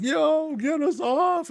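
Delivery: hammed-up terror; mock panic. Riders begging the gnome to stop, very high. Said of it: "We're like".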